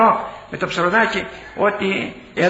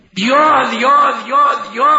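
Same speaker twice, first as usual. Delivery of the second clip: louder, higher mock boast of two; mock proud boast, louder and higher; proud repeated two; 5 semitones higher, 4 dB louder, slower than usual. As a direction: hammer out two like a proud general. General boasts of his two children.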